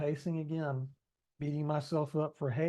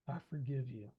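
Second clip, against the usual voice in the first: calm forgiveness; 2 semitones lower, 6 dB quieter than usual. Retold or imitated. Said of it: "Calm down".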